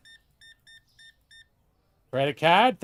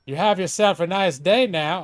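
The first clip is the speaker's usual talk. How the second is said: slow, louder small-town cashier drawl; mild country clerk twang; folksy cashier dialect; 2 semitones higher, 4 dB louder, slower than usual. Acted. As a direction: give the change with a homey twang. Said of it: "I didn't used to have that, uh, dialect".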